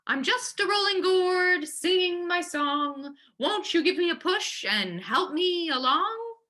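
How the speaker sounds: high, thin little sing-song, slowing on singing my song. A narrator's reading. Grandma in the gourd coaxing the tiger, thin high sing-song. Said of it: "In a thin, high voice".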